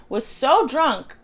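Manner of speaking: slow, high, breaking into laughter; amused accusation. Retold or imitated. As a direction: laugh through the drawn-out imitation. Laughing while repeating the accusation.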